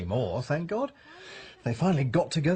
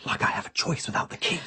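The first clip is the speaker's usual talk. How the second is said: bitter whisper. Acted. Husband grumbling while hiding.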